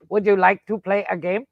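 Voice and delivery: robot voice. Retold or imitated. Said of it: "Do the robot voice from".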